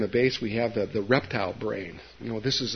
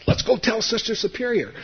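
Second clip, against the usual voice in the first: put-on much higher kid voice, breaking into laughter; laughing kids; 11 semitones higher, 3 dB louder than usual. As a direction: laugh through the friends' eager line. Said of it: "my friends grabbed me and said".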